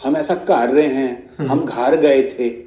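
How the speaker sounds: slow, exaggerated Punjabi-accented Urdu; drawn-out parody of Punjabi-accented Urdu; mock Pakistani Punjabi Urdu. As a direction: mimic Pakistani TV anchors' Punjabi-tinged Urdu. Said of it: "कितनी बदसूरत उर्दू बोलते हैं".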